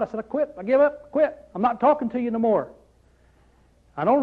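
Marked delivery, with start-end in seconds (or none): 0.2-2.7 mock a fed-up quitter, half-hearted; frustrated giving up. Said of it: "I got so upset and frustrated with God".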